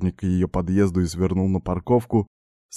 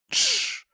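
shushing hiss; 5 dB quieter than usual. A narrator's reading. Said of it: "зашипела она на меня".

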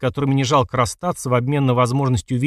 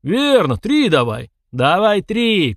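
high, stretched yells; growing crowd shouts; 6 semitones higher, 4 dB louder, much slower than usual. A narrator's reading. More onlookers demanding three, shouting high. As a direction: chant it high like an eager crowd. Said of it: "кричало всё больше голосов".

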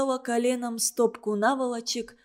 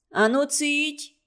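a stern, curt order; sharp hush; 5 semitones higher, slower than usual. A narrator's reading. Маря silencing the quarreling girls, sharply. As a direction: cut them off sharp and slow. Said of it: "резко сказала Маря".

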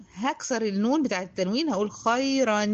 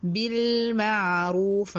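slow chanted tajweed recitation; Quran recitation; much slower than usual. Shown as a demonstration. (تلاوة مجودة بطيئة)

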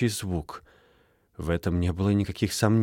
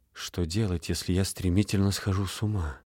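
quiet worried thought; 5 dB quieter than usual. Acted. Inner thought, fear of madness.

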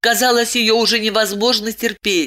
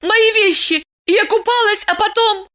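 agitated insistence; 3 dB louder than usual. Acted. Urgent agitated explanation.

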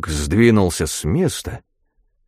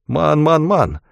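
high, hurried answer; quick reply; 7 semitones higher, slower than usual. A narrator's reading. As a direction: answer promptly, pitched up. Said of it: "быстро ответил Эрум". (быстрый высокий ответ)

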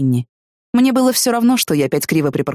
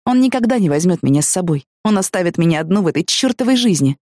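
ordinary talk

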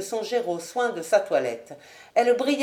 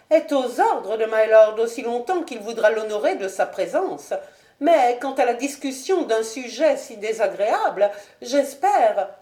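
Lady Ashton; 2 semitones higher, 3 dB louder than usual. Acted. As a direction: coolly justify herself to the marquis.

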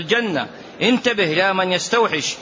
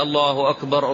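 mocking crowd imitation; 4 semitones lower than usual. Teacher mimics pilgrims' repeated takbir, fading lower. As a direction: parody the crowd's rushed repeated الله أكبر, fading as it goes. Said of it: "الناس كلهم يقولوا كده".

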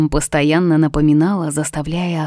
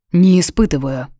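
чётко; 3 dB louder than usual. A narrator's reading. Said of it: "чётко ответил мужчина".

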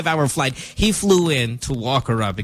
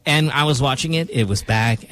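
normal talking voice

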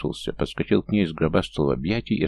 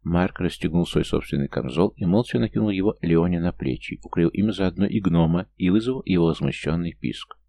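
ordinary delivery, nothing marked

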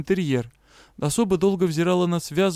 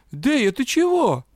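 startled; 9 semitones higher, 3 dB louder, slower than usual. Acted. Cat startled by curse.

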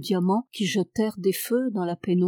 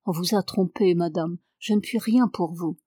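cold. Acted. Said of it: "prononça froidement".

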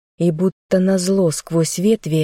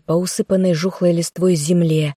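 ordinary delivery

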